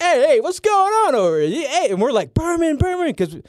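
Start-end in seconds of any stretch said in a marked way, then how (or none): 0.0-1.9 high, loud, boozy hey what's going on; tipsy Chris Berman. Retold or imitated. Drunk Berman hailing the commotion, high boozy call. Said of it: "Chris Berman's like". 2.3-3.1 high, eager call of a name. Retold or imitated. Two kids in a security grip, high eager call. Calling out to Berman.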